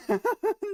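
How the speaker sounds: sudden squealing laugh high up; high burst of laughter. Real, not acted. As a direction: let out a giddy high laugh. Trader laughing at price spike.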